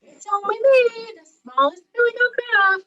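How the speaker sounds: very high, loud little billy goat; high-pitched small animal voice for children; tiny goat voice. A narrator's reading. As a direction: pipe up as the tiniest goat. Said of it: "answered in his tiny voice".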